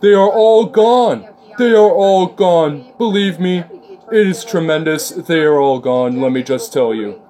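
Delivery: hammed-up Trump bragging; Trump impression. Mocking how Trump talks for a friend, slow hammed-up drawl. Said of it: "the way he speaks is just so funny".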